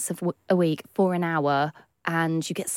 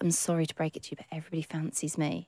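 smug quote; 3 semitones lower, 8 dB quieter, faster than usual. Retold or imitated. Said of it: "he's just like".

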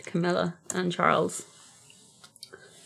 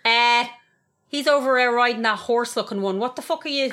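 loud, slightly raised mock indignation; hammed-up indignant comeback; indignant mock retort; 4 semitones higher, 4 dB louder than usual. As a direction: fire back in put-on outrage. Acts Diana's indignant retort to Queen.

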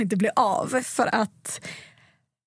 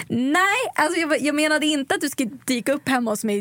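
startled protest; 4 semitones higher than usual. Retold or imitated. Flustered refusal of pushy guy.

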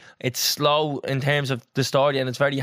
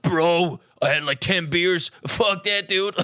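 a hint of a dudebro drawl, higher; lightly mocking American podcast bro; 4 semitones higher, slower than usual. Mocking American podcasters, light bro voice. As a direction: take off a gym-bro podcaster. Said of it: "They all talk like that".

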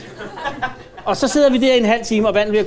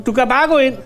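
mild, higher-pitched call to a visitor; half-shouted retold invitation; 5 semitones higher than usual. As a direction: imitate calling down to someone, only slightly raised. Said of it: "så kan jeg råbe".

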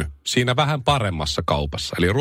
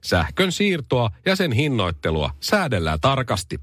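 higher-pitched, crafted newsreader delivery; satirical news read; 4 semitones higher than usual. Acted. Host reading satirical news to listeners, news read. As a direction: read it as a mock news bulletin.

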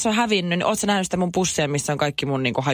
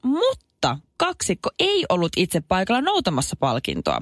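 brisk radio news read; 6 semitones higher than usual. Acted. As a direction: read it like a morning news item. Reads news item on air. (radiouutisten luenta)

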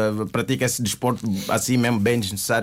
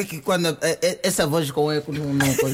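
digital echo. Real, not acted. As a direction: voice coming back with echo. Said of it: "Minha voz está com eco".

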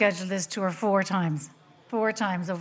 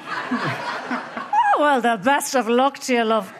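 dad wishing luck; 4 semitones higher, 3 dB louder, slower than usual. Retold or imitated. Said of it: "And he said".

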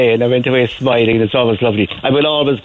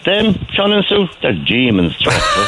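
mocking staff quote; 7 semitones higher than usual. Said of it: "other people said".

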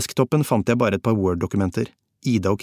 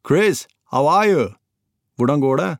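high, raised call of greeting; 6 semitones higher, 4 dB louder than usual. A narrator's reading. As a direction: call out to someone arriving. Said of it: "ropte på ham". (høyt, ropende hilsen)

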